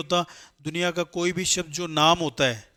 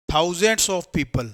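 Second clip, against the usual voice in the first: slow reading of the correct sentence; much slower than usual. Shown as a demonstration. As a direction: read thousands of people slowly, word by word. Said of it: "थाउजेंड को थाउजेंड्स किया". (धीरे-धीरे पढ़कर बताना)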